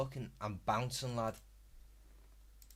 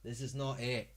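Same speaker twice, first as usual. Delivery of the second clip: quieter, dropped dismissal; softer dismissive repeat; 7 dB quieter than usual. Acted. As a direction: say it again under the breath. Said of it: "repeats it softer".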